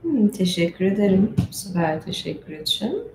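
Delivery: usual speaking voice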